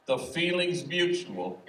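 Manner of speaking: high, slow, smiling and easy; smiling shrug reply. Retold or imitated. Cesar answering a reporter, smiling and slow. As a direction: toss it off with a smile. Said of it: "Cesar just shrugged and smiled and said".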